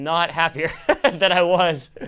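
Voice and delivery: slow, emphatic admission broken by a laugh. Real, not acted. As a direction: let a real laugh escape mid-sentence.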